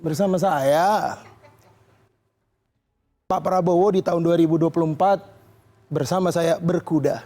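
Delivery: lightly voiced Prabowo, low and slow; hint of a Prabowo speech, drawn out; mock Prabowo. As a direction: deliver it like a solemn campaign pledge, slowed right down. Imitating a Prabowo campaign line.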